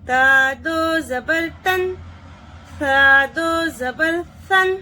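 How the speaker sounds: measured spelling-out chant; teacher's qaida recitation; reading aloud for students. Shown as a demonstration. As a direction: model each syllable for the class. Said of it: "मगर पढ़ना ऐसा है।".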